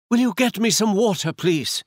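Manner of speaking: high, thin, feeble plea; weak voice. Acted. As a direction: sound faint and hurt. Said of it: "in a weak voice".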